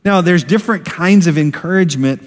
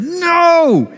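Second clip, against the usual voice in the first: retold parent's alarmed no; sharp holler. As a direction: holler to stop a child at the curb. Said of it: "grabbed her and said".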